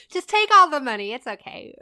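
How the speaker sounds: quick, giggly retelling of the order; laughing imitation of grandpa; laughing mock instruction. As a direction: rush it out through laughter.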